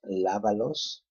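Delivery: lávalos, weight on the first A; stress on LÁ. Shown as a demonstration. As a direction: lean on LÁ in lávalos. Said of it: "again, third to the last".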